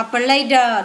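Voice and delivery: "player" ending in an added "đờ" sound; final d sounded. Shown as a demonstration. Teacher showing pupils the -ed ending, d sounded out. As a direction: finish "player" on a voiced d. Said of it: "thêm i đê vào đọc là".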